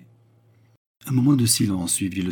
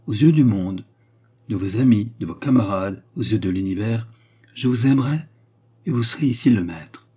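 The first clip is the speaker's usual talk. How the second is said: lightly voiced woman, raised and deliberate; commanding Baccarat; 3 semitones higher, 4 dB louder than usual. Baccarat asks the count to obey her, earnest. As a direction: test him, then promise with emphasis.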